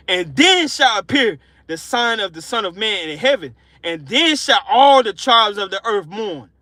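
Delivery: weighty, measured verse reading; scripture reading. Acted. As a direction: proclaim the verse steadily from the pulpit. Reads scripture aloud.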